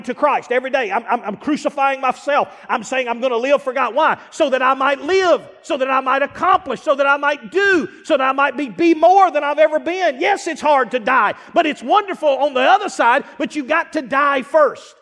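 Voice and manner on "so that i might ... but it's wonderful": fervent crescendo of a preacher; building preaching. Acted.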